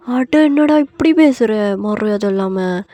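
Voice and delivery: loud, drawn-out outrage; affronted aunt. Acted. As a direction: scold him, scandalized. Aunt affronted by nephew's rudeness.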